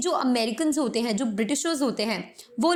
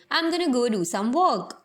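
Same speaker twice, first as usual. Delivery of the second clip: words blended quickly together; fast American; much slower than usual. Shown as a demonstration. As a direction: rush "What do you do?" as one word. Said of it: "कितने fast तरीके से ये statement मैंने अभी बोली है". (तेज़ अमेरिकी उच्चारण)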